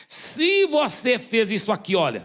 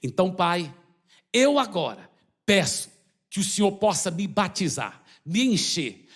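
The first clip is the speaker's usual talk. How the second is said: leading prayer. Acted. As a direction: pray it line by line so they can follow. Leads baptism prayer.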